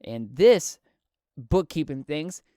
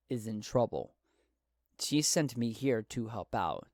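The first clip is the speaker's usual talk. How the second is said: calm voice; 3 semitones lower, 4 dB quieter than usual. Acted. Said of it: "Talti, in his calmest of voice".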